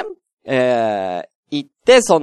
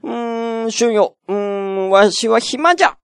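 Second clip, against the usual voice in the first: lordly shogun voice; 10 semitones higher than usual. Retold or imitated. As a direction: play a lazy feudal lord summoning a retainer. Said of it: "徳川何代将軍とかの将軍が".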